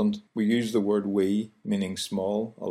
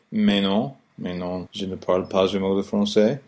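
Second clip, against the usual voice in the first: French accent. Shown as a demonstration. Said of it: "like French people say".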